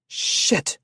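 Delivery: forceful unvoiced curse; yelled. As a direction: spit out a loud curse. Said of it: "Jared yelled".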